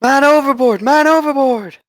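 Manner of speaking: high, loud alarm call across the deck; man overboard shout. Acted. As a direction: yell it out to the whole ship. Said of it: "you suddenly hear".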